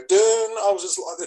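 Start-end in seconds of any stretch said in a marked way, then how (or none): 0.1-0.2 sounded-out fight bell, drawn out; a long "dun" for the bell; bell clang imitation. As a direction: imitate a boxing bell ringing. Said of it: "the bells just go".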